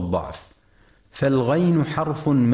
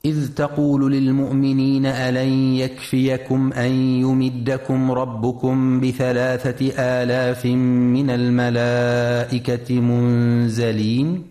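Quran recitation. Shown as a demonstration.

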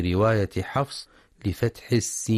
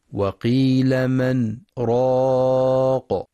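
very slow, louder chanted verse; Quranic recitation; 3 semitones higher, 4 dB louder, much slower than usual. Shown as a demonstration. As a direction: hold each syllable long.

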